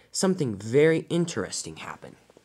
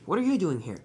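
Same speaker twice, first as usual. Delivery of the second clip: surprised, higher-pitched question; shocked; 5 semitones higher than usual. Acted. Thomas questions Spencer in the yard, shocked. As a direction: ask in mild shock. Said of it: "he was shocked to find Spencer there".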